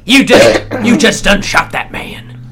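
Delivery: hammed-up country lawman; mock-official sheriff making an arrest; sheriff impression. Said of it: "happens to be the sheriff".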